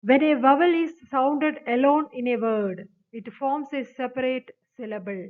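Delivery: each word of the definition read out very slowly; slow rule reading. Acted. Teacher reads the definition to students, slow dictation. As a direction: dictate it to the class.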